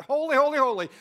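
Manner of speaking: shouted praise. Acted. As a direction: cry it out like angels calling. Angels crying out, shouted.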